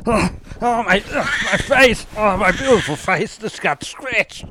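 high, theatrical distress; hammy anguished wail. Acted. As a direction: wail over your face. Face scratched, wailing.

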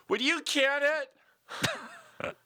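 very high, hugely stretched squeal; milk every word in a silly piercing character voice; comic catchphrase voice. Shown as a demonstration. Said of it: "That's my new catchphrase".

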